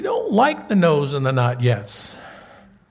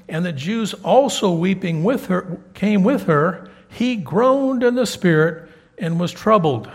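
scripture reading; 3 dB louder than usual. Acted. Reads scripture aloud.

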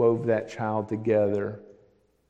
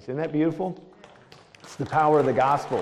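rising preacher's exclamation; 4 semitones higher, 7 dB louder, faster than usual. Real, not acted. Preacher's climax to the crowd.

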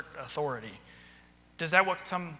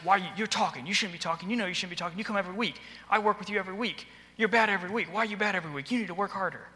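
higher-pitched, lecturing nag; nagging scold; 4 semitones higher than usual. Retold or imitated. Teacher scolding a kid who is bad every week, nagging. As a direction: rattle off the complaints like a fed-up teacher. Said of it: "Is that helping them?".

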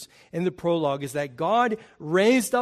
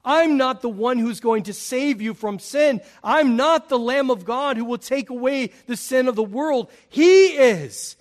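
emphatic denial; 6 semitones higher, 7 dB louder than usual. Retold or imitated. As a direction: deny it, then point out loudly. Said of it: "John wants it to be clear".

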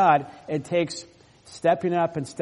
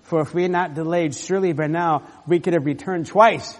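urgent Judah; 3 semitones higher, 7 dB louder than usual. Acted. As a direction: get them moving now. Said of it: "what he says in verse ten".

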